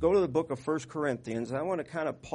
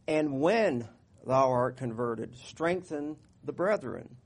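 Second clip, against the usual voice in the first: drawn-out, deliberate reading of the verse; slow scripture reading; 4 dB louder, slower than usual. Acted. Pastor rereading the verse to the congregation, slow and deliberate. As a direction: lean on each word of the charge.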